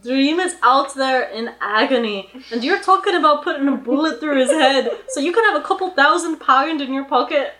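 loud, impassioned Welsh lilt; attempted Welsh accent. Retelling Tony yelling at townspeople, indignant rough Welsh accent. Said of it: "most invigorated attempt at a Welsh accent".

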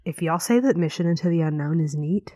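giggly hushed fake outrage; laughing mock rant.

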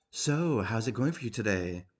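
bright greeting lifted on "So", then ordinary; cheerful. Retold or imitated. Nurse greeting a sick patient, mildly cheerful. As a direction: mimic a doctor's cheery hello. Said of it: "in a very cheerful tone of voice".

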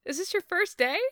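high, incredulous mock telling-off; mock scolding. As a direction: needle a clueless rookie in a high voice.

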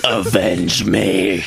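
slow, hammy dying plea; overacted death scene. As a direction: drag out a melodramatic last plea.

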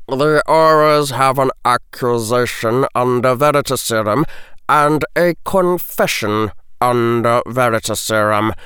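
cold, biting teacher; stern potions master lecturing a boy; sharp bite. A narrator's reading. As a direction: clip each fact at him. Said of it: "the bite in his voice was sharp".

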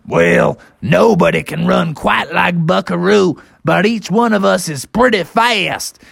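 folksy triceratops. Acted. Triceratopses answering their riders, folksy. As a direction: concede it, then boast.

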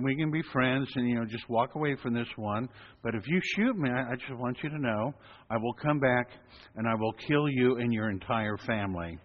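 mock calm, even tone; deadpan menace said gently; calm threat. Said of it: "I talked very calmly".

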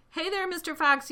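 high, loud call; taunting yell. A narrator's reading. Bunce leaning out of his tractor, yelled. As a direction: yell it out to someone far below. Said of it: "yelled Bunce".

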